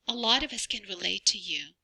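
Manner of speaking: normal talking voice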